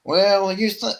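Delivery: loud, high redneck twang; redneck accent. Shown as a demonstration. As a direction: attempt a hammed-up redneck accent. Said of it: "I used to have a really good redneck accent".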